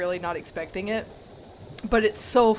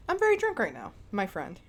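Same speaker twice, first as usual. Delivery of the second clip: put-on drunk voice. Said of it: "Walks towards the bathroom".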